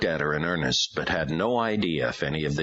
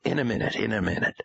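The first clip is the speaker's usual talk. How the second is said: gentle, slow; 7 semitones higher, faster than usual. A narrator's reading. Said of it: "tried to speak slowly, carefully, gently".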